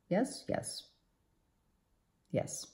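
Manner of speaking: soft breathless whisper of delight; whispered yes. Real, not acted. Tarot reader whispering to herself over a card, delighted. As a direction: hush it to yourself like a secret win. Reader confirming the cards excitedly.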